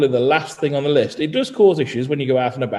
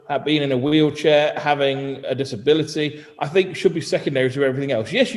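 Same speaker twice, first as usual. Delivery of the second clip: ordinary talk, nothing marked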